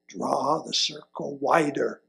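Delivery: soft, slow and deliberate; quiet slow refrain. Acted. Preacher giving the congregation the refrain, soft and slow. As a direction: lay the refrain down gently.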